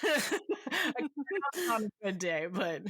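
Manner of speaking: hoarse, raspy smoker's voice; rough throat, like a heavy smoker. Real, not acted. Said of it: "I sound like the smoker from the first story".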